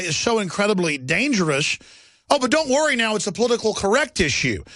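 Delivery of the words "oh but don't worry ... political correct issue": sarcastic, pitched-up reassurance; higher, mocking don't-worry tone. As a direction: feign reassurance with heavy sarcasm. Mocking political correctness.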